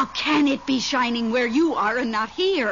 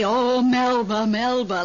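slow, drawn-out imitation of a pitying sigh; mimicking pity; slower than usual. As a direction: echo his mournful tone back at him, slowly. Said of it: "like that?".

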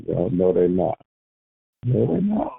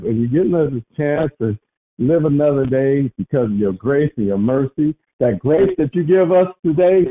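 steady earnest prayer voice; 2 semitones higher than usual. Acted. Leading the prayer line in thanks, earnestly. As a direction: lead them in prayer, sincere.

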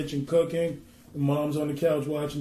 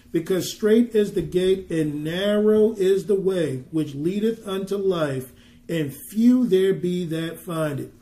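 slow, louder solemn reading; scripture reading; 4 dB louder than usual. Acted. Preacher reading Matthew seven to his listeners, solemn and slow. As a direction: proclaim the verse deliberately.

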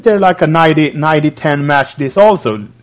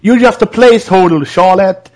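mock Paige; 6 semitones higher than usual. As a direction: taunt her, pitched up. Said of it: "she said".

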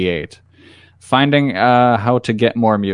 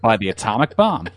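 clickbait video narrator. Pretend.

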